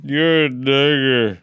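drawling redneck insult. Retold or imitated. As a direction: sneer it like a hick. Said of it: "what happened to me one time".

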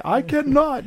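very high genie voice; grand genie refusal. Pretend.

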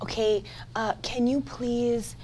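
soft, hesitant, overly polite request; mock-meek plea dropping toward a whisper; timid suggestion. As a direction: tiptoe through a feeble, hushed request. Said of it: "He didn't just suggest".

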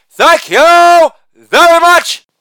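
high, slow thank you in the style of a famous singer. Acted. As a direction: drawl it like a famous singer. Famous-singer-style sign-off.

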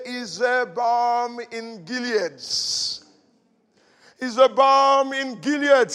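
slow, weighty proclamation; slow solemn voice of the Lord; strong divine voice. Retold or imitated. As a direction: intone it like God speaking. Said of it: "a strong voice and say".

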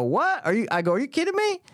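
high-pitched shocked disbelief; stunned disbelief. Retold or imitated. Telling a friend about the cashier, high shocked disbelief. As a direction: squeak it out like you can't believe your luck. Retelling disbelief at a dollar price.

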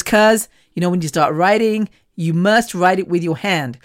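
put-on a weak, half-hearted American accent on cousin's words; mock American accent, barely there; bad American accent. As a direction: lightly mimic an American cousin. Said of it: "That's a real bad American accent".

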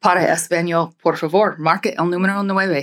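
Spanish phone prompt, even and polished; phone menu voice in Spanish. Shown as a demonstration. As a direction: read the Spanish menu option like a recording. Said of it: "That's pretty good".

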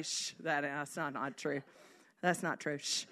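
low, soft self-soothing; murmured reassurance between shushes; quiet self-talk. Retold or imitated. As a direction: hush your own heart gently. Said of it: "saying it to my own heart".

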